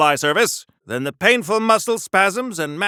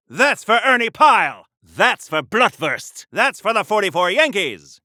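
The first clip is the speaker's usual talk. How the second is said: vengeful battle cries; 4 semitones higher, 3 dB louder than usual. Acted. Punching enemies, vengeful battle cries.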